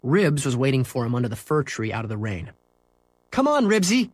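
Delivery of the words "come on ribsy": high, loud call to a dog; yelling. Acted. Henry calling his dog to hurry, high yell. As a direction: call out urgently across the schoolyard. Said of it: "Henry yelled".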